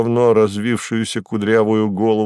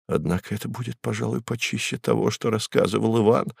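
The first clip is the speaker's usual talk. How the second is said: much softer, hushed awe; whispering; 8 dB quieter than usual. Acted. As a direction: breathe it out in stunned wonder. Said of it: "шепча".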